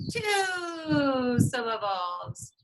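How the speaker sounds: slow, cheering call to the class; excited cheer. Real, not acted. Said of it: "How many?".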